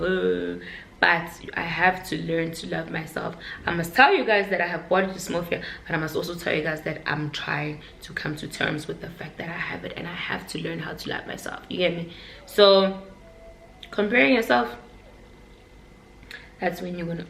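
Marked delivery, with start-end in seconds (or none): 5.9-11.6 hushed confession. Real, not acted. Confessing body dysmorphia to viewers.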